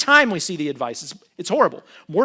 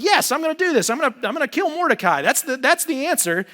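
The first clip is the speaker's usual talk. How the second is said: much higher, elated decision; triumphant resolve; 8 semitones higher, 5 dB louder than usual. Retold or imitated. Haman deciding to kill Mordecai, high and gleeful. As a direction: seize on the idea with glee. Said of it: "and he's like".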